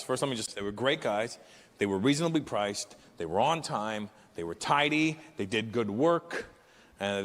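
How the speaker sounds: normal talking voice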